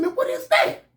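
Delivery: high breathy disbelief, almost whispered; baffled. Retold or imitated. Baffled whisper to the inmate about the town. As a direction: ask it like the word makes no sense.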